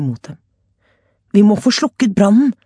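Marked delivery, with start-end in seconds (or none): 1.3-2.5 a touch of rasp, louder. A narrator's reading. Luan urging to put out fire, hoarse shout. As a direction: hack the words out of a sore throat. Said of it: "harket Luan".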